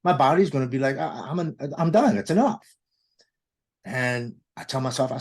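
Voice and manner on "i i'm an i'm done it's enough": the body shouting that it has had enough; own body fed up. Retold or imitated. Telling how his overdosed body would finally quit, a fed-up, rising outcry.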